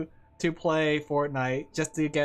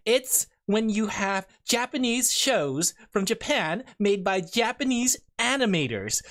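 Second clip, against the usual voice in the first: comic book nerd voice. Pretend. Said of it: "I'm changing my whole voice".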